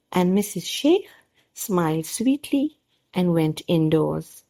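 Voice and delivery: clear, even read-aloud storytelling; calm children's story narration. A narrator's reading.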